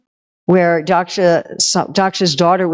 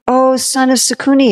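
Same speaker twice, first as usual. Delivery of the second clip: higher, syrupy flattering greeting; sweet-talking con man; 7 semitones higher than usual. Acted. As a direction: lure him in with fake friendliness. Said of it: "disguised himself as a little Shiva brahmachari".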